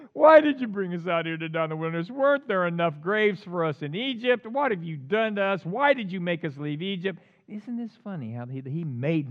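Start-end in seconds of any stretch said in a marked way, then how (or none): 0.1-7.2 acted wailing complaint, loud at the start; crying out. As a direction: open on a loud cry, then keep complaining. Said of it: "they cried out to the Lord".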